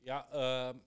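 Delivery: loud, offhand company announcement. Retold or imitated. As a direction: announce it loudly, casually. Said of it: "so ungefähr halt".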